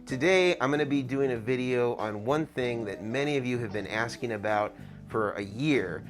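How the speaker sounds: muffled through an N95 mask; talking through a mask; through a face mask. Real, not acted. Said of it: "an N ninety-five mask".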